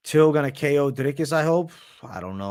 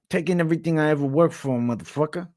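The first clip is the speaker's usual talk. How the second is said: Nate Diaz; 2 semitones higher, 3 dB louder than usual. Acted. Fighter calling out his rival, lightly imitated fighter voice. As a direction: do a trash-talking fighter's accent. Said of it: "Nate Diaz is your best".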